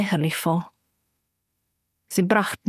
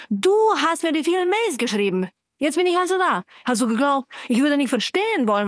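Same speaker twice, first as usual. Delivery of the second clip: rising anger; 6 semitones higher than usual. Acted. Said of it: "wie mich meine Wut immer lauter werden ließ".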